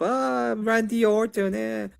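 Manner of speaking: high, unimpressed groan at the name; bored wrestling fan. Retold or imitated. Wrestling fan unimpressed by Randy Orton, high and dismissive. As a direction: shrug him off like a bored fan. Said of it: "It was like".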